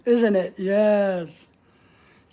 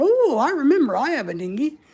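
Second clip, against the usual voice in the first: higher, wavering "ooh" of excitement; mock fired-up; 5 semitones higher than usual. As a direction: imitate boys getting all worked up. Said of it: "these boys all fired up going".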